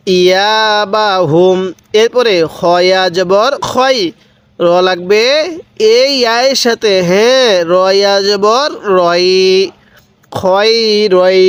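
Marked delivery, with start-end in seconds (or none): 0.1-1.6 slow repeat. Shown as a demonstration. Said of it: "আরেকবার". 10.3-11.4 slow syllable reading. Shown as a demonstration. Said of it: "কিভাবে শিখব".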